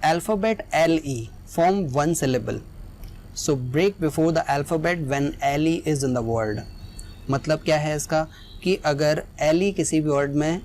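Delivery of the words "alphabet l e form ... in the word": slow dictation. Shown as a demonstration. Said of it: "वही इसकी definition हमें बता रही है".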